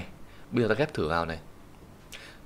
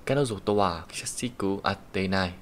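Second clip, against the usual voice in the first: slow model sentence reading; reading example sentence; slower than usual. Shown as a demonstration. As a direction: read the sentence very slowly for the class. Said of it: "reads example sentence aloud".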